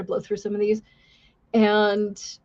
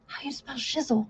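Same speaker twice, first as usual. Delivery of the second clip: put-on Hispanic accent; 3 semitones higher, 10 dB quieter than usual. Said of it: "he's got a Hispanic accent".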